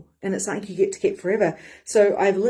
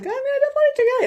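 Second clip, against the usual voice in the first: excited vow; 4 dB louder, much faster than usual. Retold or imitated. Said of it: "So I was like".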